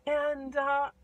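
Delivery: high, loud cry of sudden memory; excited girl. Retold or imitated. Gerda remembering Kay, high excited shouting. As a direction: shout it as it all comes back. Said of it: "And she goes".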